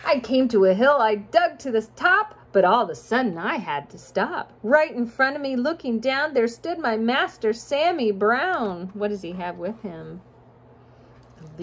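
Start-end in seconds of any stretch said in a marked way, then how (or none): 0.1-8.9 sing-song rhyming storybook read; reading to children. A narrator's reading. Parent reading a rhyming picture book to a child, sing-song. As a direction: lilt the rhymes for a child listener.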